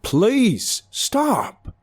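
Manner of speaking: high, loud begging cry; desperate plea. A narrator's reading. Passenger to hysterical driver, desperately pleading. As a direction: beg at a near scream.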